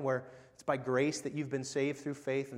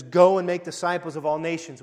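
louder, ringing proclamation of the verse; proclaiming loudly; 9 dB louder than usual. Acted. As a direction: announce the commission like a herald. Quoting the Great Commission.

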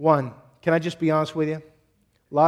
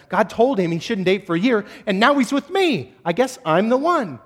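higher, hopeful mock girl voice; girlfriend imitated; 5 semitones higher, 4 dB louder than usual. Girlfriend to herself, deciding she's the one, in a higher mock voice. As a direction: sound flattered and sure. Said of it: "She's like".

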